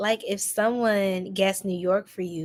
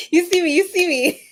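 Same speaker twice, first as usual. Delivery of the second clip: high teasing voice, playing around; playful put-on voice; 8 semitones higher, 4 dB louder than usual. Streamer teasing chat in a goofy put-on voice. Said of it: "let me stop playing".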